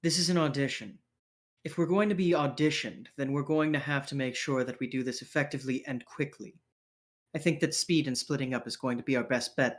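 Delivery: measured, businesslike plan-giving; composed leader character. Acted. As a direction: lay out the tactics briskly and evenly. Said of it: "Violet holds up his hand and goes".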